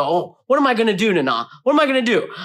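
panicky. Retold or imitated. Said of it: "kinda getting a little panicky".

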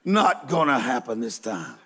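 low, deadpan gate agent. Retold or imitated. Preacher voicing the agent, low and deadpan. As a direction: drop low and flat for the agent.

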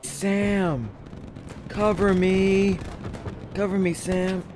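urgent call for cover; cover me shout. Real, not acted. Pinned down, calling to teammate.

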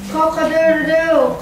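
put-on a child's mild rooster crow. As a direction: crow it out like a rooster, first call. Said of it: "he heard the rooster call".

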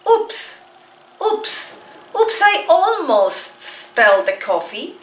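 high oops, oops, then slow line; startled little oops, spelled out slowly; teaching the oops by repetition; repeated oops. Shown as a demonstration. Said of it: "Let's repeat".

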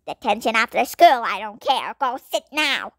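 loud, stern teacher handing out detention; strict teacher. Acted. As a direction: lay down the law to the class. Teacher dismissive.

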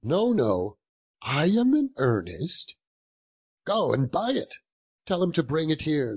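lively, swooping urging; eager insistence. Acted. Scrooge sends the boy for the turkey, eager and insistent. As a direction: press the offer with mounting eagerness.

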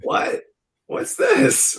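high-pitched, incredulous squeak; comically outraged disbelief; mock disbelief. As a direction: voice leaps up in baffled protest. Mock disbelief at credit name.

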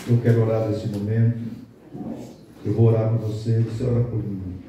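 prayerful. Acted. Pastor inviting the church to pray, calm and humble.

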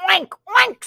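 high oinks; oinking duck. Acted. The duck oinks for the child. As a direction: oink as the duck. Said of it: "said the duck".

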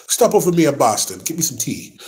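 badly faked Boston Irish accent; half-hearted Boston accent for laughs; fake Boston accent. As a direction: put on a joking Boston accent. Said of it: "I ain't got no Boston accent".

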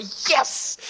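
mock triumphant exclamation; gleeful acted cheer. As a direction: celebrate like you just won. Acts his younger self rejoicing.

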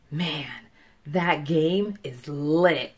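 understated, drawn-out excitement; demonstrated excitement. Shown as a demonstration. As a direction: savor it slowly, like an impressed fan. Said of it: "say it with excitement".

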